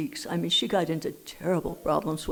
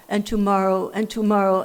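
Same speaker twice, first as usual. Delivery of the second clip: tomorrow louder each time, pressed hard; despairing emphasis; 6 dB louder than usual. Retold or imitated. Thinking of tomorrow at three in the morning, louder despairing repeat. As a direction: hammer "tomorrow" with growing despair.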